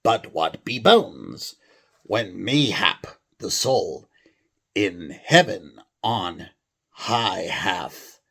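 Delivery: put-on amateur English accent, slow. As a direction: read it as a stage Englishman. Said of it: "a normal English accent".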